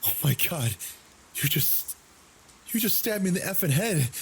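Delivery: retold frantic scream; panicked screaming. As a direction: shriek it out while pushing past him. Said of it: "pushed past him while screaming".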